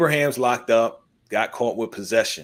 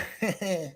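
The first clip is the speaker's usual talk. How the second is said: high, soft laugh; imitated laugh; 8 semitones higher, 7 dB quieter than usual. Woman laughing at the DJ being convinced, imitated laugh. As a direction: imitate her laughing in a higher voice. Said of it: "she started laughing".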